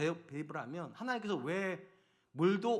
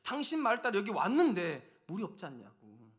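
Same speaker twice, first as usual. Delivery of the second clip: angry complaint; 3 semitones higher than usual. Retold or imitated. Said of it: "모세한테 가가지고 화를 내는 거예요". (화내며 따지는 백성 흉내)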